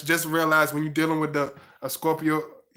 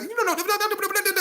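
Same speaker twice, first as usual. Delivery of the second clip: high-pitched, rapid Geechee gibberish; mock Geechee jabber, pitched right up; Geechee accent; faster than usual. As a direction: imitate a fast Geechee talker way up high. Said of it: "You know how they talk real fast, that Geechee".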